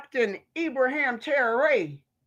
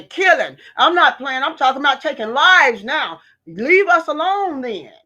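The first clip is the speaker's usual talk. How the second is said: louder, hammering each word; loud furious rant; 5 dB louder than usual. Real, not acted. Ranting to her viewers about fighting back, loud and furious. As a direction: insist you mean it, loud and hard.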